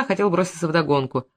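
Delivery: usual speaking voice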